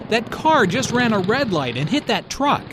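with a lot of energy. Acted. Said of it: "is said with a lot of energy".

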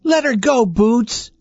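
pleading dolls. A narrator's reading. Dolls telling the kitten to let go, high-voiced. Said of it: "the dolls said".

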